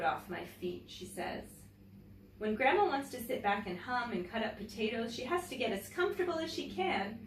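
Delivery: gentle, clear read-aloud storytelling voice; story narration. Acted. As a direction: read it like a picture book to children. Reads a picture book aloud.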